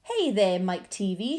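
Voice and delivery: loud call across the boat; shout. A narrator's reading. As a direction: call out sharply to the boy. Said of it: "shouted Mister Wonka".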